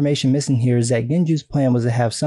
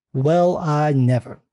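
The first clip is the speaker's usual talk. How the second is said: slow, prissy pearl-clutching gasp; mock scandalized; slower than usual. Mocking offended critics, slow scandalized gasp. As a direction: play a shocked prude.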